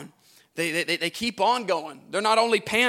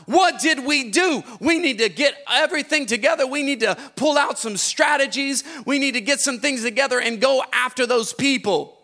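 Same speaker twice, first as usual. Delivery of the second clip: a hint of the devil, pitched higher and sung over the music; mock devil voice; 5 semitones higher than usual. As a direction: voice the devil scheming to chase his slaves. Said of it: "he's gonna say".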